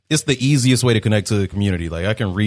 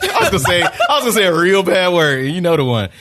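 mock British accent; 8 semitones higher, 3 dB louder than usual. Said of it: "you went from British to Australian".

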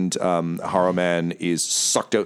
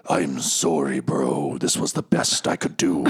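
low, subdued, sheepish apology; deep-pitched, embarrassed mumbled sorry; awkward Haruman; 5 semitones lower than usual. Acted. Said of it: "Haruman's, like, awkwardly in a corner".

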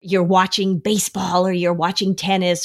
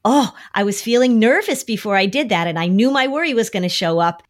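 higher, gentle normalizing; calm and accepting; 4 semitones higher than usual. Shown as a demonstration. Parent modeling calm to kids, accepting. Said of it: "Just say".

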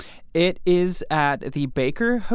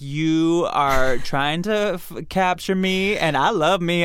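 diva voice; 3 semitones higher, 3 dB louder than usual. Retold or imitated. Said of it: "She's totally like".

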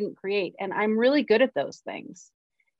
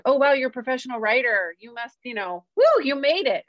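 higher-pitched imitation of an impressed outsider; mock admiration; 5 semitones higher than usual. Imitating people who think the writer has made it, mock gushing. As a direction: gush in mock congratulation.

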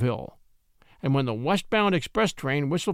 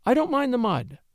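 higher, brave and game; bravely; 8 semitones higher than usual. A narrator's reading. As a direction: put on a brave face. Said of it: "very bravely indeed".

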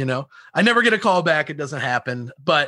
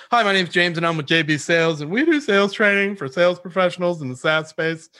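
lightly parodied cold-call pitch; mock salesperson intro; 2 semitones higher than usual. Cold caller introducing himself to a prospect, mock rote pitch. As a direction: reel it off like a rote sales script.

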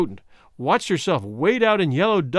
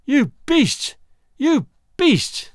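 high, wailing sobbed cry; sobbing; 10 semitones higher, 3 dB louder, much slower than usual. Acted. Woman flung on the bunk after being sold, sobbing. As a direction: sob the words out into the bunk.

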